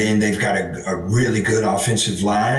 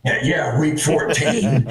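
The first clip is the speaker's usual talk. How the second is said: lost voice, hoarse and strained; 4 semitones higher than usual. Real, not acted. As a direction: talk through a worn-out voice. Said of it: "my voice is gone".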